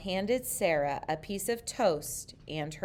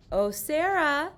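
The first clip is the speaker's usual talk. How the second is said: higher, louder gushing voice; gushing principal; 9 semitones higher, 5 dB louder than usual. A narrator's reading. Principal Missus Burton greeting Sarah, gushing. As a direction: gush over her with delight. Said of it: "Missus Burton gushed".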